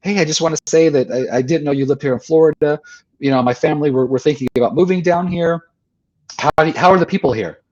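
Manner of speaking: high, excited fan voice that pitches way up; gushing fan. Retold or imitated. Woman gushing at Wayne Dyer on the beach, high and excited. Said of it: "She's like".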